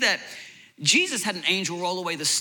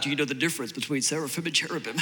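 quick, lower, laughing show-off question; mock show-off; 5 semitones lower, 5 dB quieter, faster than usual. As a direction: tease a know-it-all relative, laughing. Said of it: "start flexing on them".

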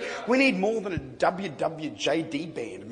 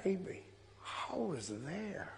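put-on old woman's voice; 14 dB quieter, slower than usual. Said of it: "She said".

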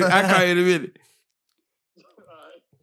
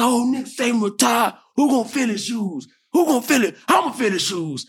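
ranting fan; 4 semitones higher than usual. Retold or imitated. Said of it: "he just goes on this rant".

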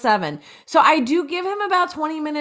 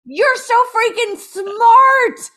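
mock praise; 11 semitones higher, 6 dB louder, much slower than usual. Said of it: "And I'm like".

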